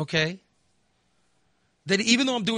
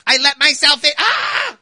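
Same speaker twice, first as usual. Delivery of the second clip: sudden louder higher mock entrance; mimicking the intruder; 7 semitones higher, 9 dB louder than usual. Imitating his mother-in-law letting herself in, louder. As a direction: pop in like the sneaky visitor.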